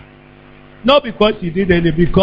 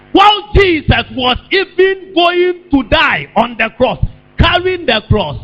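raised, fervent pulpit delivery; impassioned preaching; 8 semitones higher than usual. Real, not acted. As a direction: preach it with rising urgency. Preacher rises in fervour.

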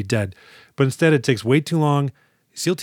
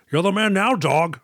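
Sean Connery impression; 7 semitones higher than usual. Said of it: "let me give him a little Sean Connery voice here".

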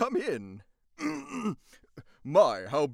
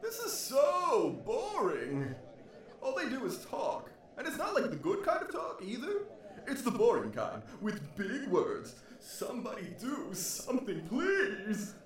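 bored whining. Acted. Captain complains of boredom.

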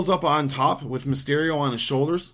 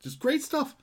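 hiccups; 3 semitones higher than usual. Real, not acted. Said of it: "I can't stop hiccuping".

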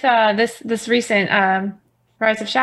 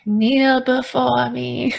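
very slow mock-grand threat; megalomaniac rant; 2 semitones higher, much slower than usual. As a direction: draw it out like a tyrant. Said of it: "the threaten is".

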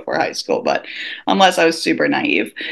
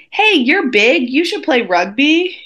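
higher, blunt upbeat pitch; recruiter girl; 6 semitones higher than usual. Retold or imitated. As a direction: sell it bluntly. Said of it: "girl's like".

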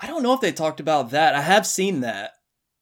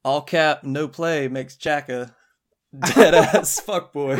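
laughing slang parody; 4 dB louder, slower than usual. Pretend. Mock Gen Z Shining quote.

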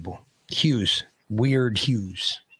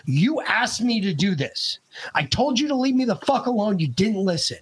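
retold scolding; 6 semitones higher than usual. Old man scolds the beaten kid.

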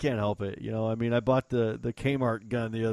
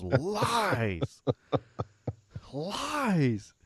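mock accusing friend; 8 semitones higher, 3 dB louder than usual. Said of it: "He goes".

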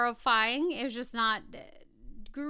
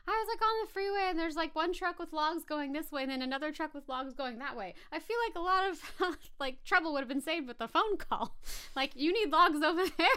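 higher-pitched retelling of a stand-up bit; Ryan Regan bit; 5 semitones higher than usual. Retold or imitated. Quoting a favorite comedian's logging truck bit, lightly imitated. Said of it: "Ryan Regan, who's a comedian I love".

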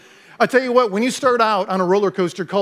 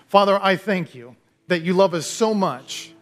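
closing prayer. Acted. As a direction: pray it gently, drawing the room in.

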